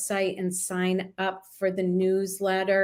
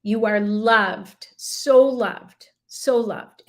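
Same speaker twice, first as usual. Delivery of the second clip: moved to tears; 5 dB louder, slower than usual. Real, not acted. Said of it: "I'm getting tears".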